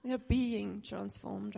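slow, laughing "being transformed"; laughing emphasis. Shown as a demonstration. Preacher laughing while stressing being transformed. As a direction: say it slowly through a laugh. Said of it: "Can you just say that?".

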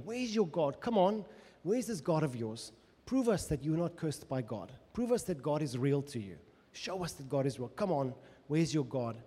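scoffing enemy, jeering challenge; a touch of a sneering mocker; mocking taunt. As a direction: taunt him like a mocking crowd. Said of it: "They say, 'Where is your God?'".

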